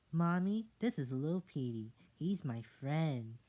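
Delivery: put-on high pleading kid voice; small child begging mother. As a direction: plead like a little kid to mommy.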